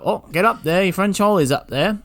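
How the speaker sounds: hammed-up boss pushing him up. Boss ordering the sweep boy up, mock pushy voice. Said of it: "You go".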